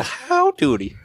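cowboy twang. Pretend. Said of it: "I don't do a good Western".

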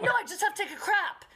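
high, fast, laughing explanation; laughing reply. Retold or imitated. Mom answering worried friend's text, laughing. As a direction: blurt it out half-laughing. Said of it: "I'm like".

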